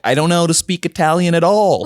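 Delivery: lightly imitated Queens Italian accent; a touch of Queens Italian in a fond impression; mock Queens Italian; Joey's Queens Italian accent. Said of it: "he has quintessential Queens Italian accent".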